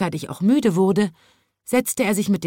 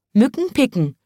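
high twittering bird voice; chirping birds; 6 semitones higher than usual. A narrator's reading. Birds answering the chimney sweep, high and chirpy. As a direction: chirp it brightly. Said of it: "zwitscherten die Vögel".

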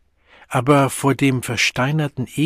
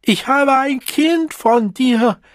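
much higher, slow shout; shouting over noise; 13 semitones higher, 6 dB louder, slower than usual. A narrator's reading. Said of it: "überschrie sie den Lärm".

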